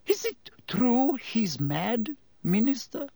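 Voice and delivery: landlady character. A narrator's reading.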